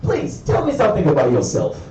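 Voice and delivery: posh English interviewer. Retold or imitated. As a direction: play the smooth posh recruiter. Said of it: "this posh English guy that was like".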